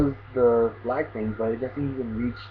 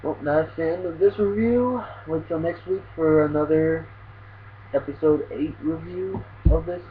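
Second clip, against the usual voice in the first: higher-pitched outro to viewers; video sign-off; 6 semitones higher than usual. Real, not acted. Reviewer closing the episode review for viewers, sign-off style.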